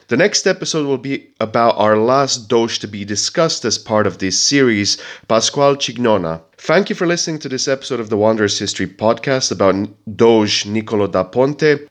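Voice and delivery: blocked nose from a heavy cold; stuffy, nasal head-cold voice. Real, not acted. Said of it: "I want to apologize for my quite nasally voice".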